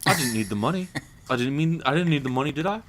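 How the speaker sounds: put-on light Cockney accent; a loose Cockney voice; a light Cockney voice shrugging off the money; Michael Caine impression. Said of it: "Michael Caine impressions".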